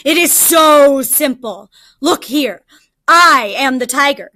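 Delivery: impatient tiger. Acted. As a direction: spell it out like a fed-up tiger. Tiger explaining angrily to jackal.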